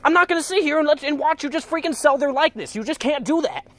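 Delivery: protesting the merch of his friends; indignant protest fading. Retold or imitated. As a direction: defend your friends, then run out of steam. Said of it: "I'm like".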